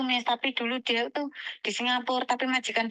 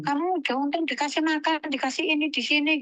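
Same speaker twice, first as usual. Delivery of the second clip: higher-pitched mock nagging; a mild retold scolding, pitched up; imitated grumbling; 5 semitones higher than usual. Grandmother grumbling at the helper before giving food, mildly imitated nagging. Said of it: "neneknya itu ngomel dulu".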